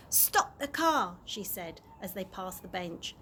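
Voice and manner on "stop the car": firm order. Acted. Chloe orders Dad to stop.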